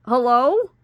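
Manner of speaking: loud, high, urgent answer; snatch up the phone and demand; urgent loud hello. Retold or imitated. Picking up the phone from Amanda, loud and urgent. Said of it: "and I'm like".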